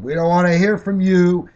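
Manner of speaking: retelling an audience heckler yelling, mock yell. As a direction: throw it back like a heckler in the crowd. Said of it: "Someone else screamed".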